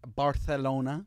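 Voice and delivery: Barcelona with a Castilian th for the c; Spanish lisp. Shown as a demonstration. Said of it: "What's up with the T H".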